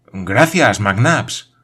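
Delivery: loud grateful exclamation; exclaiming. Acted. Paganel thanks the major who caught him, exclaiming loudly. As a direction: blurt out thanks, still shaken. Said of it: "exclamó Paganel".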